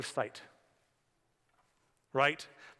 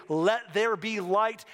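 slow proclamation; 4 semitones higher, 4 dB louder, much slower than usual. Retold or imitated.

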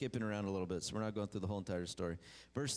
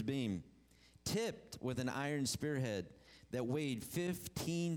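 measured, deliberate Bible reading; steady sermon scripture read. Acted. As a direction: read the passage out to the church. Preacher reads scripture aloud.

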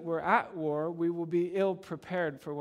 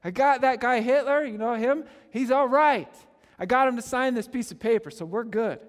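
high, loud, hammed-up victory cry; mock triumphant shout; 7 semitones higher, 8 dB louder than usual. Preacher mimicking Chamberlain's return, hammed-up triumphant shout. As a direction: brandish the paper and crow it to the crowd.

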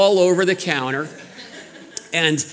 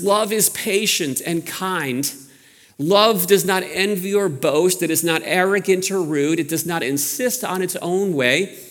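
scripture reading. Acted. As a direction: read the verses solemnly, stretching the last lines. Reads scripture aloud.

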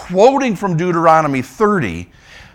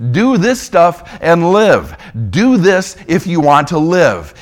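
voicing God's command; 4 dB louder, slower than usual. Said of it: "God saying through Moses".

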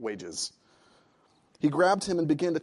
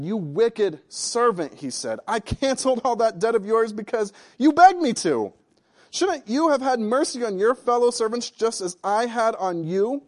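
loud, raised rebuke; angry master; 6 semitones higher, 7 dB louder than usual. Acted. Master rebuking the wicked servant, loud and angry. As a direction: scold him for his lack of mercy. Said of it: "in anger".

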